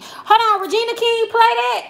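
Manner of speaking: high-pitched incredulous question; surprised. Real, not acted. Streamer learns Regina King played Riley, surprised. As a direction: stop short in disbelief, pitch way up.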